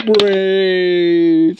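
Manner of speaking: drawn-out zombie groan; mock zombie moaning brains. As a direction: moan it like a hungry zombie. Zombie toy voice.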